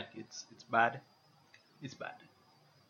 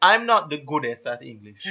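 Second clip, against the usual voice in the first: mock bad grammar. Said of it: "I think you mean best".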